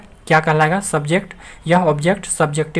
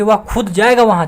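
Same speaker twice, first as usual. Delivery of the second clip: खुद stressed with a slightly raised voice; mock-angry emphasis on खुद; emphatic stress; 4 semitones higher, 4 dB louder than usual. Shown as a demonstration. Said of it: "चिल्ला के कोई बोलता है ना गुस्सा के".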